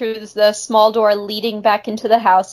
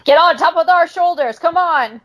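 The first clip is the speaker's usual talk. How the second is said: Zeppo voice; 9 semitones higher than usual. Pretend. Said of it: "Groucho and Zeppo Marx".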